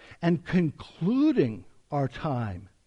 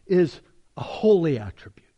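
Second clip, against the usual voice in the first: breathy whispered emphasis; 4 dB louder than usual. Real, not acted. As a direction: drop to a whisper to drive it home. Preacher stressing a key point.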